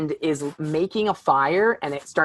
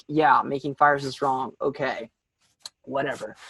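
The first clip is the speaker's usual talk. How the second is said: imitating weary appeasement; humouring; 4 semitones lower than usual. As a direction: placate the angry friend half-heartedly. Humouring the angry friend.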